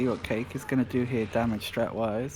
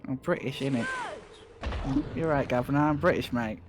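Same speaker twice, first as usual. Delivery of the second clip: lightly hammed-up British accent, teasing; mock British accent. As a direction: play up a cheeky British accent, mate. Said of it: "You're British".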